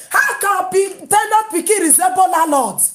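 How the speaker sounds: loud outraged question; shouted question. Real, not acted. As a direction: shout it in disbelief. Outraged rant.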